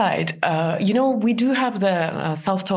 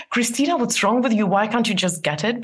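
harsh self-talk; 4 semitones higher than usual. Shown as a demonstration. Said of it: "Try replacing, not".

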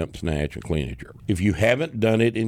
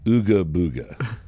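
deadpan silly name. Retold or imitated. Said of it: "Here's a name for that order".

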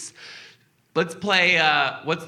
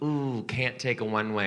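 lightly put-on Southern US accent; 4 dB quieter than usual. Rental agent refusing a one-way car, mild Southern accent. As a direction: turn down the request with a touch of Southern. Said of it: "I don't know why they're Southern".

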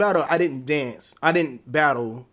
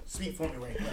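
quiet, with gum in mouth; mumbling around a wad of gum; mouth full; 3 semitones higher, 11 dB quieter, faster than usual. Real, not acted. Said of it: "having old gum in his, uh, in his mouth".

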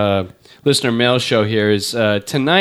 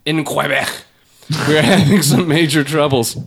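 mock newscaster in an over-the-top French accent; Quebec with a French accent, pretentious; hammed-up French accent. A podcaster mocking an Oscar speech in an overdone French accent. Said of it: "say it in the appropriate accent".

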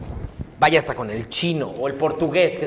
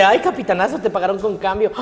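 lightly voiced Sander; 4 semitones higher than usual. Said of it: "Yo hago un personaje que se llama Sander".

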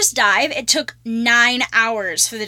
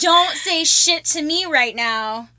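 mock diva; 3 semitones higher, much slower than usual.

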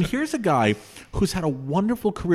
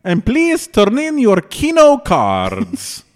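Vegas lounge announcer; 11 semitones higher, 7 dB louder, slower than usual. Pretend. Mock Vegas lounge act announcement.

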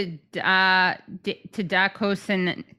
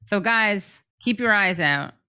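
put-on mild Australian accent, mouth pulled sideways; Australian park officer appealing to the public; light Aussie accent talked out the side of the mouth. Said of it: "a sideways thing with my mouth when I do it".

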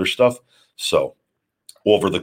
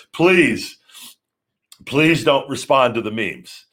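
pleading; 5 semitones higher, slower than usual. Real, not acted. Begging fans not to respond.

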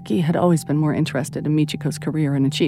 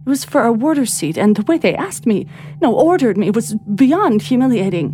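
babbling; 6 semitones higher than usual. Acted. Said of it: "she was babbling".

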